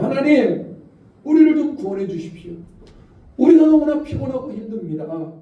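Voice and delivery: pleading complaint to God. Retold or imitated. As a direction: plead with God as the weary captives. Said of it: "하나님께 따졌습니다".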